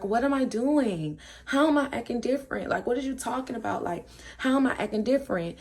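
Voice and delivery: retold incredulous comeback; defensive protest. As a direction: imitate an accused friend protesting innocence. Acted defensive reply in argument.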